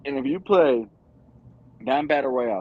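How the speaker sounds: talking through hiccups; hiccuping between words. Real, not acted. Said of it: "excuse me, I got the hiccups a little bit".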